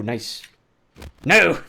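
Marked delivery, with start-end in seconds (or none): 1.2-1.6 high, loud cry of dismay; dismayed shout. Real, not acted. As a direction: yell it as you lose. Dying in the game.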